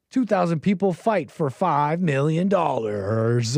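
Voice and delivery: drawn-out, mock-grand title read; mock title announcing. Commentator mocking YouTube video titles, drawn-out announcing. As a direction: stretch out the words like a hype title.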